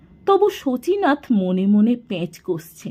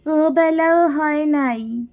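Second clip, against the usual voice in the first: put-on high, tear-choked boy's voice; holding back tears; 7 semitones higher than usual. A narrator's reading. Fatik admits there was no cooking, holding back tears. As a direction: answer while fighting down a cry. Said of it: "কান্না চাপা গলায় বলল".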